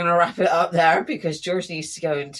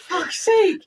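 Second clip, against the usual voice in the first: laughing exasperation; 13 semitones higher, 4 dB louder than usual. Real, not acted. Friend cracking up.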